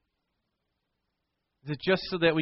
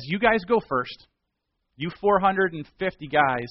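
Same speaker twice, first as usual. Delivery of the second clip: confident dare; 3 semitones higher, 4 dB louder than usual. Acted. Elijah invites the prophets first.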